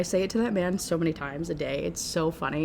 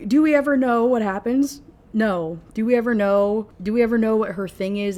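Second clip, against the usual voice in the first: exasperated; 3 semitones higher, 7 dB louder than usual. Real, not acted. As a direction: raise your voice in comic frustration. Exasperated rant about book.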